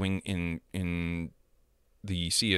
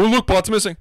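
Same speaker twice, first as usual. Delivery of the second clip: higher, louder sarcastic sing-song; passive-aggressive; 12 semitones higher, 7 dB louder than usual. Retold or imitated. Kid needling the team, mock passive-aggressive sing-song. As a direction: needle him with fake cheer. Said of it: "he started getting passive-aggressive".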